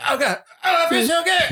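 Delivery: high, hammed-up sigh of pleasure; mock blissful groan. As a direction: play it as an overdone dying bliss. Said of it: "And he goes".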